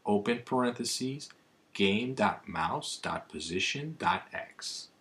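reading a formula symbol by symbol; dictating. Shown as a demonstration. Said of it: "This is what it should look like".

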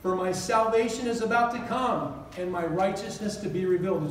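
measured reading of holy words; scripture reading. Acted. Reads scripture slowly.

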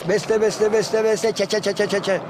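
slow chanted opening, then crushed rapid notes; spoiled bird song. Shown as a demonstration. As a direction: imitate a finch muddling its call. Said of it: "Bozuk. Eziyor". (bozuk, ezik ötüş taklidi)

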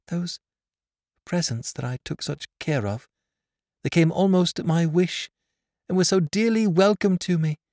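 put-on high girl's voice, rising with emotion; a blind girl shaken by a suspicion; trembling. A narrator's reading. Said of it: "she said, trembling".

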